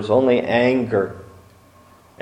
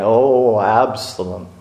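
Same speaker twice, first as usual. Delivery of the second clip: a father's broken lament; grieving cry. Acted.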